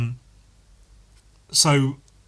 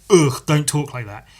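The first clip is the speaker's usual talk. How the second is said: imitated disgusted "Ugh", then a scolding; mock a condescending telling-off; dismissive disgust; 4 dB louder than usual. Person in authority rebuking slang, mock dismissive disgust. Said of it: "the dismissiveness of it".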